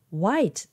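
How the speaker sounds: ホワイト said as "wait/wite", no "ho"; English pronunciation. Shown as a demonstration. Teacher showing what it sounds like, ホワイト starting on w. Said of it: "ほとんどホワイトに聞こえます".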